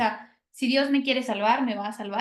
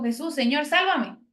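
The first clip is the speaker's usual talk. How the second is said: cry for help; 4 semitones higher than usual. Retold or imitated. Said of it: "fue y dijo".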